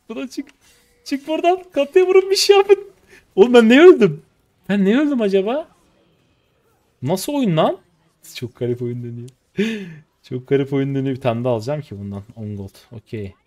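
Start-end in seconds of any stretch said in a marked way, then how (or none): 0.1-7.8 much higher and much louder, yelling orders; real panic as he dies; panicked shouting. Real, not acted. Gamer yelling at teammates in a lost fight, panicked. 9.6-11.1 "Çok garip oyun dönüyor" said through a laugh, louder; chuckling at the weird game. Real, not acted. Streamer laughing at how weird the game is going.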